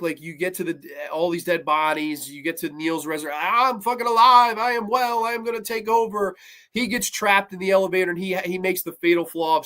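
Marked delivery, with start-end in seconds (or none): 3.4-6.4 high, triumphant villain proclamation; hammed-up declaration of new life; mock resurrected villain. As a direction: announce a comeback like a risen villain.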